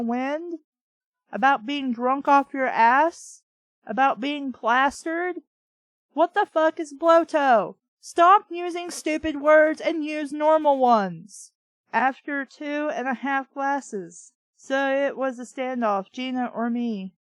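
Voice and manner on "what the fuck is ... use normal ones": loud, higher, fed-up shout; exasperated yell. Real, not acted. Reader shouts at the narrator's made-up word, exasperated.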